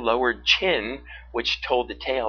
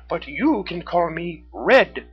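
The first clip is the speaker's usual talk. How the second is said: high, loud, slow raccoon voice; Red; 6 semitones higher, 6 dB louder, slower than usual. A narrator's reading. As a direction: offer the nickname as a proud raccoon. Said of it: "said the raccoon".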